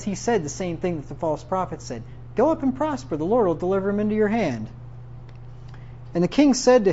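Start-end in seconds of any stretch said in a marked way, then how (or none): 2.4-4.7 tongue-in-cheek sarcasm. Acted. Prophet echoes the false prophets to the king, sarcastic. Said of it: "with a little bit of sarcasm".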